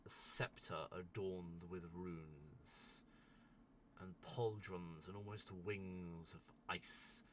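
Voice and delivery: scene narration. Acted. Game master unveils a rising ice being to players, measured narration. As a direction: describe the emerging giant with slow, deliberate pauses.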